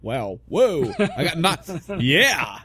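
laughing at his own slip; amused at himself, laughing. Real, not acted. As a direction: giggle through the words. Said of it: "laughs at his own slip".

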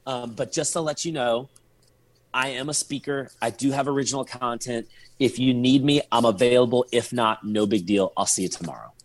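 low, easygoing no-big-deal delivery; super casual. Retold or imitated. Offering himself as a speaker by text, super casual. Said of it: "made it look super casual".

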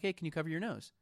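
soft-voiced polite ask; kindly request. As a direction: imitate her gentle, friendly request. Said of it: "She said it very kindly".

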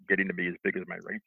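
talking through a burp; a burp caught mid-phrase. Real, not acted. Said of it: "excuse me, I'm burping".

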